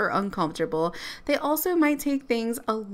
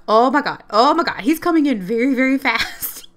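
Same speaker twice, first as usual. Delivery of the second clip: excited alarm; 3 semitones higher, 7 dB louder than usual. Real, not acted. Werewolf charging at her.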